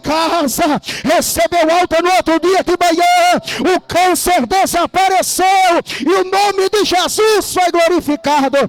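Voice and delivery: fervent, driving testimony climax; pregação a plena força. Real, not acted. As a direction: preach it out with full conviction, barely pausing. (pregação fervorosa e triunfante)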